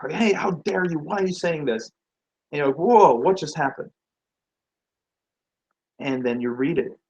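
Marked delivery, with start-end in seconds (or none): 0.1-1.9 mildly indignant, pitched up; mock angry message. Angry reply to a misread joke, mock indignant. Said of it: "you get this angry message back". 2.8-3.9 louder, startled mock reaction; taken aback. Joker getting an angry email back, startled.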